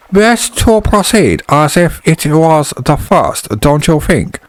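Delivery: high, slow put-on East Asian accent; oriental accent. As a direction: stretch the vowels in a thick Asian accent. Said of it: "so I'm gonna do an oriental accent".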